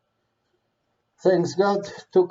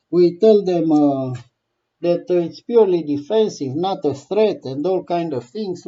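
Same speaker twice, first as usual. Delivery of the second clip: louder, hammed-up fake reassurance; mock Russian assurance; 5 dB louder than usual. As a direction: sell the lie with a straight face. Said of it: "voicing Russian false assurances".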